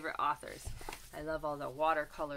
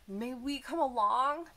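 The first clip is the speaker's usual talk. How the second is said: pleading fish; 5 semitones higher, 5 dB louder than usual. Acted. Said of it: "pleaded the fish".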